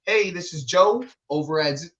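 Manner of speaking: put-on phone voice for work, upbeat; imitated professional phone greeting; white person voice. Shown as a demonstration. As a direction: switch into a customer-call "white person voice". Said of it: "turn on my white person voice".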